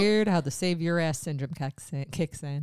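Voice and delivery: put-on accidental Boston accent, kicks as kacks; broad Boston vowels. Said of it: "It was my Boston accent".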